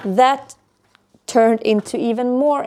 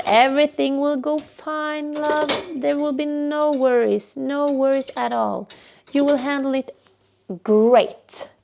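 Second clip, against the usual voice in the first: reassuring mom; 4 semitones higher than usual. Retold or imitated. Mother soothing anxious daughter.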